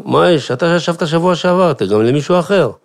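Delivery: high, loud angry shout; squabbling brother shouting across the table; brother yelling. Retold or imitated. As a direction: yell at your little brother. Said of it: "ודוד צועק".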